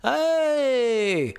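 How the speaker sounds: high, token little cheer; half-hearted high-pitched hooray; underwhelmed mock reaction. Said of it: "that's my reaction".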